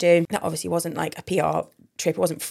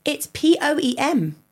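slow, higher-pitched letter-by-letter correction; emphatic spelling out; 4 semitones higher, slower than usual. Shown as a demonstration. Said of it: "you're saying it like P O I".

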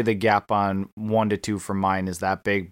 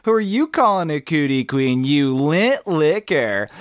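mock furious retort; 6 semitones higher, 5 dB louder than usual. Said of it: "so it goes".

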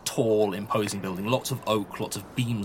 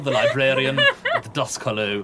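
librarian voice; 5 dB louder than usual. Acted. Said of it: "this is the librarian's voice".

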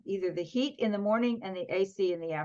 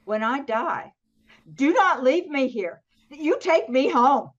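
a firmer, louder, slower demand; insisting to her husband, louder and slower; 4 semitones higher, 6 dB louder than usual. Retold or imitated. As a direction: lay down the law to her husband. Telling husband her burial wishes.

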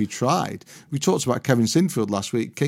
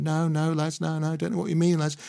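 raised, breezy mock denial; Harry Redknapp denying; 6 semitones higher, 5 dB quieter than usual. Harry fobbing off reporters in the car park, lightly voiced innocent denial. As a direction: brush off the reporters, higher and innocent.

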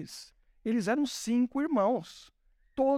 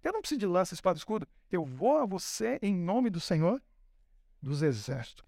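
low, steady and measured; a hint of solemn resolve; calm defiant David; 3 semitones lower than usual. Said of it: "Ele falou".

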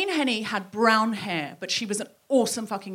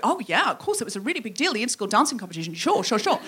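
hammed-up singsong reminiscing; mock gushing recollection; faster than usual. Former classmate recalling the competition, exaggerated gushing. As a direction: swoop up and down, overplaying the fond memory. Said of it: "No, she didn't say it like that".

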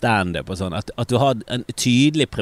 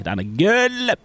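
gushing; 10 semitones higher, slower than usual. Real, not acted. Gushing praise of a joke.

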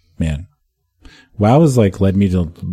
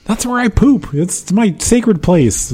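mock reverent; 13 semitones higher, slower than usual. Reverent joke about his toilet.

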